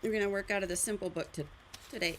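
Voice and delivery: talking through the hiccups. Real, not acted. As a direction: hiccup breaks up the words. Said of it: "I have the hiccups".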